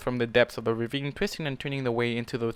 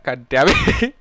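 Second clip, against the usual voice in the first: loud, higher exasperated curse; frustrated curse; 6 semitones higher, 11 dB louder, much slower than usual. Real, not acted. Reader cursing at Spike, loud exasperation. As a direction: blurt it out, fed up.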